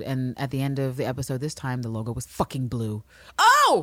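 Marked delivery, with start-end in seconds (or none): 3.4-3.8 high, loud sarcastic gasp; mock amazed oh. Real, not acted. Host mocks HBO's blue logo with a sarcastic gasp. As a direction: gasp like it's genius.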